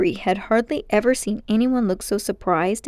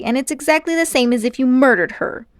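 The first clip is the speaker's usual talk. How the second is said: put-on shouting boy; 4 semitones higher, 5 dB louder than usual. A narrator's reading. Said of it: "shouted Diggory".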